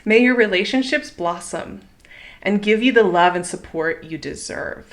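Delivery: gentle, unhurried blessing, each wish given like a small prayer; heartfelt toast. Real, not acted. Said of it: "here is the toast I have for you".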